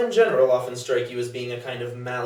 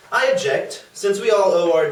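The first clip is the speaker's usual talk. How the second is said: mock objection; 6 semitones higher, 7 dB louder than usual. Mock formal objection at dinner.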